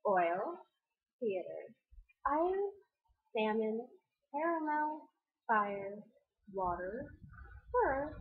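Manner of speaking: word list again at an unhurried pace, pausing between words. Shown as a demonstration. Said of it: "I'll do it a little bit slower".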